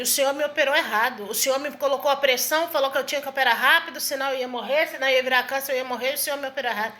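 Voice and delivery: usual speaking voice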